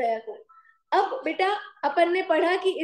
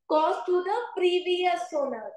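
very slow, drawn-out key phrase; slow, emphatic teaching; much slower than usual. Real, not acted. Teacher giving students the rule on cost, slow and emphatic. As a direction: stretch each word of the rule.

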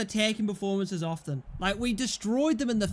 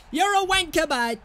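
angry insult; 8 semitones higher, 3 dB louder than usual. Real, not acted. Abusing the fouling player.

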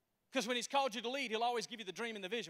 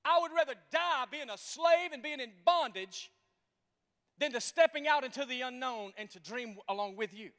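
complaining people; 2 semitones higher, 5 dB louder than usual. Acted. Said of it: "That's what they were saying".

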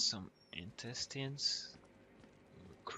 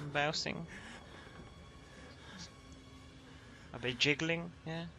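mock chummy greeting; 5 semitones higher, 4 dB louder than usual. Mocking chat to dead body.

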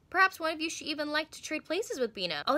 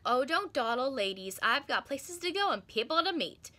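impatient. Acted. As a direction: hurry the girls along, mildly impatient. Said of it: "the fairy said impatiently".

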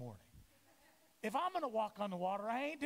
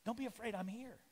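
gentle reassurance. Retold or imitated. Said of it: "Do you see this?".

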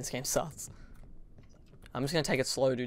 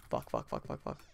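whispered curses in panic; breathless hushed swearing; terrified whisper; 13 semitones lower, 8 dB quieter than usual. Real, not acted. Hiding from monster.

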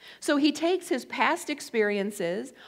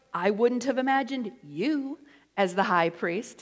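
sassy. Shown as a demonstration. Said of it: "It's always how you say it".

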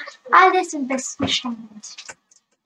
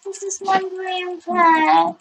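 shrieking jackpot winner; 4 semitones higher, 4 dB louder, slower than usual. Real, not acted. Thrilled repeat.

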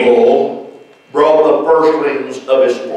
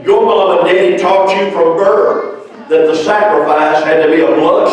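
higher-pitched preacher's reproach; stern questioning; 5 semitones higher than usual. Acted. God confronting Cain over his rejected sacrifice, stern questioning. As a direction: press the wrongdoer for an answer.

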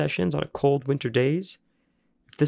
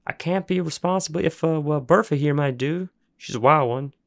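higher, rough backwoods voice; gruff warning; 4 semitones higher, 3 dB louder than usual. Acted. Junkyard man warning the boys about Bertha, gruff. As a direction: warn about the wild dog.

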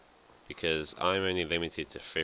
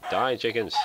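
loud, high mock war cry; battle cry; 6 semitones higher, 8 dB louder than usual. Real, not acted. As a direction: yell it while swinging a sword. Attacking chickens in game.

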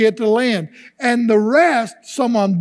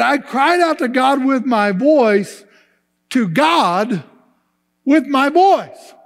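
psalmist's cry, repeated with emphasis on "with my voice"; emphatic repetition; 3 semitones higher than usual. Acted. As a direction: declare it firmly, pausing before "with my voice". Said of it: "we wanna emphasize it emphatically".

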